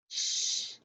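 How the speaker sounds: a hushed, voiceless "Sh" held as a sound; digraph sound. Shown as a demonstration. Teacher modelling the digraph sound to second graders, voiceless "Sh". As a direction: hiss out "Sh" like the digraph sound alone. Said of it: "And then we have our digraph".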